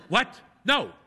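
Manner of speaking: high startled what; flustered refusal; shocked. A narrator's reading. Priest shocked.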